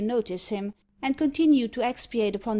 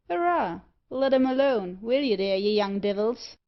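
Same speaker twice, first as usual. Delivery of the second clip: Irish bricklayer; 3 dB louder than usual. Acted. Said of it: "cried an Irish bricklayer".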